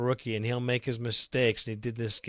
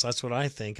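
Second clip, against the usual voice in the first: normal talking voice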